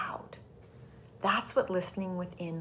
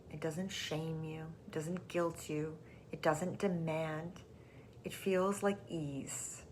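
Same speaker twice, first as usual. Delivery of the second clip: hushed; 5 dB quieter than usual. Shown as a demonstration. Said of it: "demonstrates gentle guidance".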